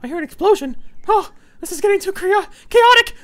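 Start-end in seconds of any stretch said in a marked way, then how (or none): 1.1-3.2 panicked. Real, not acted. Explosion, panicking.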